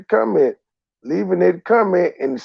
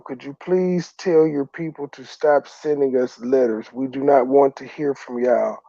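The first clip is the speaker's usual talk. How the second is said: mock federal official; 5 semitones lower than usual. Commentator mocking the feds asking to stop letters, mild mock official voice. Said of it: "hit your ass up and say".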